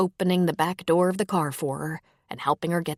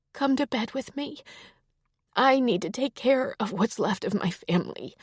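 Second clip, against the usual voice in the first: higher, gentle female character voice; wife's voice; 6 semitones higher than usual. A narrator's reading. Wife comforting her grieving husband, higher gentle voice.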